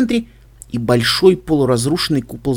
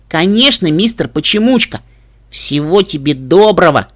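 excited filly; 2 semitones higher, 4 dB louder than usual. Acted. Cheerful filly says goodbye.

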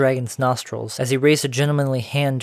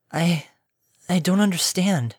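put-on halting young pony; 5 semitones higher than usual. A narrator's reading. Pony confused.

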